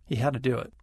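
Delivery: had to said hadduh, to reduced to a voiced duh. Shown as a demonstration. Teacher shows to becoming duh after a voiced sound. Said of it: "After a voiced sound".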